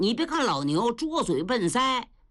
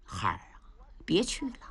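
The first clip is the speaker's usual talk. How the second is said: choked whisper, much softer; hushed plea; 6 semitones lower, 7 dB quieter than usual. Acted. The uncle whispers to his nephew not to follow him to his doom. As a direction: whisper it as if holding back tears.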